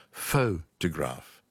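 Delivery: Photograph said slowly with the stress on the first syllable, pho; Photograph, first syllable stressed and drawn out. Shown as a demonstration. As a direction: lean slow on PHO in Photograph. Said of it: "It's pho and then t-graph".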